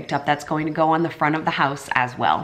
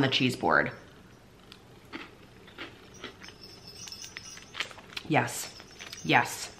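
talking with food in mouth; finishing a mouthful; chewing while talking; 5 semitones lower, 10 dB quieter, slower than usual. Real, not acted. Seen 0: Bit food at -4; lips closed, working, until about 2.1s.

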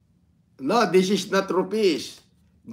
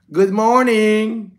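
drawn-out greeting; 5 semitones higher, 7 dB louder, much slower than usual. Real, not acted. Drawn-out live stream greeting.

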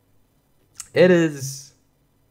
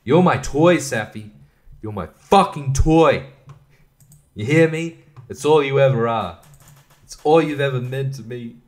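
louder, playful mock menace; mock possessive; 3 semitones higher, 4 dB louder than usual. Owner teasing dog Safi, playful mock menace. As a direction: tease the dog like a cartoon villain.

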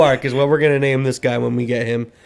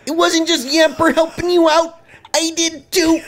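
put-on high robotic girly voice; high, stiff robot voice; robot girl voice; 11 semitones higher than usual. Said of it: "She's turning into a robot".

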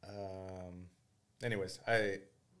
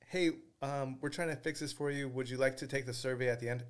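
mock polite rep; 4 semitones higher than usual. Customer service rep on phone.

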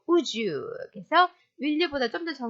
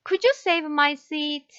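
each word slow and distinct, a teacher modelling; teacher slowly models the phrase for learners to repeat; 2 semitones higher, much slower than usual. Shown as a demonstration. Slow careful demo. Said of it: "첫 번째 표현입니다".

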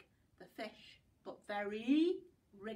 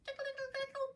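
excited; much faster than usual. Acted. Tickling game with children.

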